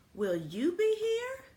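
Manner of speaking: high, anxious little voice; worried school voice. Acted. School asking the janitor, high and anxious. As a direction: ask it small and hopeful. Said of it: "said the school".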